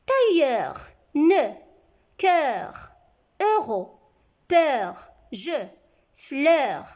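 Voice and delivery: "Tailleur, ne, cœur, euro, peur, je, fleur" each set apart by pauses; careful word-by-word reading. Shown as a demonstration. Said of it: "je relis les mots. Vous, vous faites très attention".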